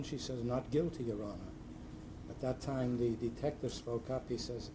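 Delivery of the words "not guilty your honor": soft sweet-voiced plea, softer; a defendant's sweet, demure murmur; dulcet tone. Defendant pleading to the judge, in a mock-dulcet soft voice. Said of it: "In very dulcet tone".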